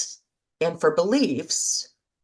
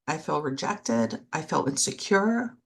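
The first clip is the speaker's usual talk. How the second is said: gentle self-talk; 4 dB quieter than usual. Shown as a demonstration. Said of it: "But if I can say".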